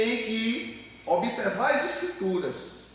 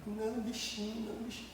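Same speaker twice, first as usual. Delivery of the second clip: much softer, cooing mother's voice; mock coddling mother; 3 semitones higher, 13 dB quieter, faster than usual. Imitating a doting mother pampering her boy, soft cooing.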